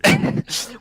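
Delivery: quick high, airy chuckle; breathy laugh. Real, not acted. Host amused before trailer news, breathy laugh. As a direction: laugh briefly on a rush of breath.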